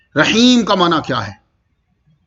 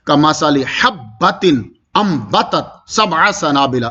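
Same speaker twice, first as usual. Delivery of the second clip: very slow chanted Arabic; tilawat recitation; 3 semitones lower, much slower than usual. Shown as a demonstration. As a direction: recite حبۃ and سنابل drawn out. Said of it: "اب یہ دیکھیے میں تلاوت کر رہا ہوں".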